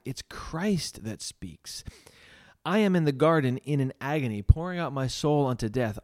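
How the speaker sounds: lightly acted earnest pulpit appeal; lay preacher. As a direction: preach it with emphasis, drawing out key phrases. Reads the preacher's sermon in character.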